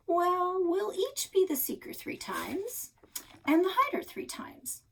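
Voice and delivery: high, slow, rule-making voice; bossy kid voice. Acted. Quincy setting game rules in a high bossy voice. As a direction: lay down the rules grandly.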